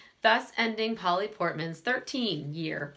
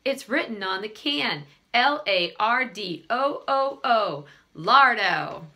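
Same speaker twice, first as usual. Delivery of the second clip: jingle recited; 3 dB louder than usual. A narrator's reading.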